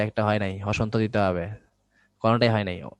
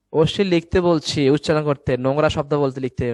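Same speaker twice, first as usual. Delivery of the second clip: loud, insistent teacher's correction; exasperated scolding; 6 dB louder than usual. Real, not acted. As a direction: scold the class, hitting the words hard. Teacher scolding students who misunderstood task. (বিরক্ত হয়ে জোরে বকুনি)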